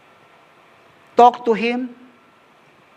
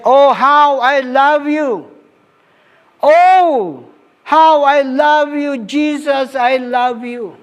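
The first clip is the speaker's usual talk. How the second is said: fervent devotion; 5 semitones higher than usual. Retold or imitated. Preacher quoting a worship song to the congregation, fervent. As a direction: lift it up, then let it ease. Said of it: "we sang a song, which is very, very powerful. ... It says".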